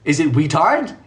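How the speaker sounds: "guitard" said WEE-tard; silent-g "guitard". Shown as a demonstration. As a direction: drop the g from "guitard", starting on w. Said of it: "what's silent here".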